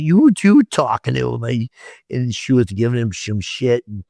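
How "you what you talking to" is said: much higher, louder mock yell at the cop; high, loud retold outburst; sister's retold yell. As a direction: imitate the sister's angry shout. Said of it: "She's like".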